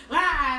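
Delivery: short, loud mock "wah"; mock wail. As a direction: cry out in a loud imitation wail. Acts out smashed guitar's cry.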